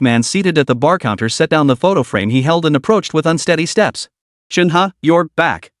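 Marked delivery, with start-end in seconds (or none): 4.5-5.7 put-on slow, slurred drunk greeting. A narrator's reading. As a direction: drag it out like a drunk father. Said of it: "He belched a few times as he spoke".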